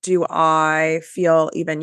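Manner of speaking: stuffy, congested voice; talking through a stuffy nose; blocked nose. Real, not acted. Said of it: "you can hear my voice, I'm stuffy".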